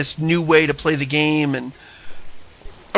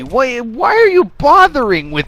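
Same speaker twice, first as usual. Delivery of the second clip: game character voice; 7 semitones higher, 5 dB louder than usual. Acted. Game dialogue clip voice.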